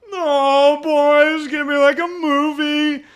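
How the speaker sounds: high, hammed-up romantic glee; giddy mock excitement. Retelling leaving the airport lovestruck, in high mock glee. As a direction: gush it high, like a starry-eyed romantic.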